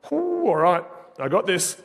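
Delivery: high exhale, then steeling himself; retold self pep-talk, starting high; psyching himself up.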